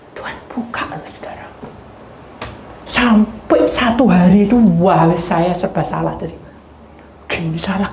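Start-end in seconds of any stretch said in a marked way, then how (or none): 0.1-1.5 softer, hushed confiding to the congregation; a hushed aside; whispered aside. Real, not acted. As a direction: lean in and tell them a secret.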